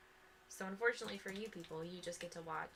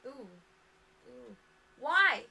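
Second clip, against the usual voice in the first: loud, pained why; exasperated outcry; 6 semitones higher, 12 dB louder, slower than usual. Real, not acted. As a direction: cry out in mock despair. Opponent plays a sneaky card.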